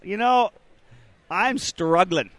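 hungover. Real, not acted. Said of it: "I am so hungover right now".

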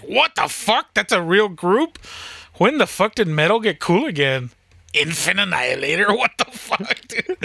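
high, half-laughing what the fuck; shocked disbelief. Retold or imitated. Hearing the band is real, high shocked disbelief with a laugh. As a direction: sound floored by the band name.

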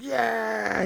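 high, drawn-out mock party yell, held back in volume; pumped-up cheer. Hyped guest on coke at the party, mock pumped-up cheer. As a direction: imitate a wildly pumped-up partier. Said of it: "he gets all pumped up on coke".

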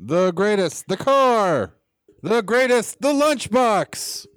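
hyped, high announcer voice; toy commercial. Acted. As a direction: sell the toys like a TV ad. Mock toy ad for Ali.

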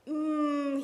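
long, relishing hum; savoring "mmm". A narrator's reading. Monkey tasting the sweet syrup, savoring "mmm". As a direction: hum with pleasure at the taste. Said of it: "he thought".

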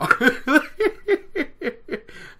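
bright real laugh. Real, not acted. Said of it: "laughs at own notes".

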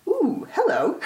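delighted ooh. Retold or imitated. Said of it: "I remember thinking".

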